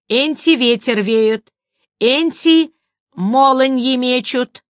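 slow, singsong granny reciting lore; old woman voice. Acted. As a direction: recite it like an old village crone. Old woman reading from book.

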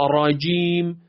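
راجیم with a long ا and a light rolled ر; correct fine trill. Shown as a demonstration. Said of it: "ریز، ویبرهٔ ریزه".

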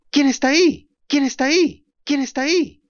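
high, fading far-off echo; distant echo. Acted. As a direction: repeat it like hills echoing. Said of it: "el eco de las colinas alrededor repetía desde lejos". (eco lejano que se apaga)

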